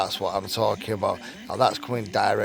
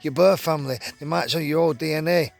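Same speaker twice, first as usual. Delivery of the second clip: high, louder excited announcement; 7 semitones higher, 4 dB louder, faster than usual. A narrator's reading. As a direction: deliver the big news with excitement. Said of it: "she told me excitedly".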